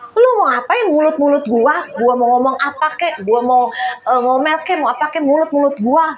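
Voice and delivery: mildly angry imitation; lightly mock an indignant comeback; angry husband retort. Wife retells husband answering her back, mock angry retort. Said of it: "suami saya marah pernah lu".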